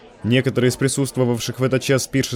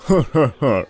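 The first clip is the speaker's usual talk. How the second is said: carefree cooing laugh; slower than usual. A narrator's reading. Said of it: "с беззаботной улыбкой проворковал".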